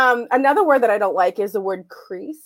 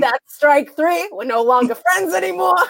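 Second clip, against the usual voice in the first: staccato; 5 semitones higher than usual. Pretend. Mock outrage after teasing.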